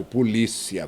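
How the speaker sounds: "polícia" with a strong LÍ; penultimate stress. Shown as a demonstration. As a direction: hit the LÍ in "polícia". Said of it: "a penúltima sílaba". ("polícia" com o LÍ bem marcado)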